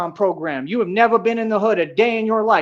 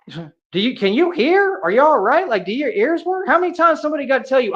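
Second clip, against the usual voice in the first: higher-pitched, incredulous questioning; exasperated sarcasm; 5 semitones higher than usual. Real, not acted. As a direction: ask as if they must be hard of hearing. Sarcastically asks if opponents can hear.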